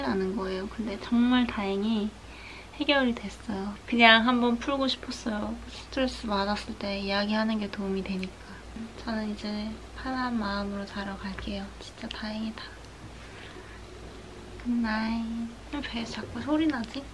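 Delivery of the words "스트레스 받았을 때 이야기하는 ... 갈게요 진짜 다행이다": whisper. Real, not acted. Late-night confiding to viewers.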